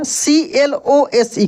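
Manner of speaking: letters spelled out slowly, one by one; teacher dictating letters slowly; slow spelling. Shown as a demonstration. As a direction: spell it out for the class, unhurried. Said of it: "teacher spells word letter by letter".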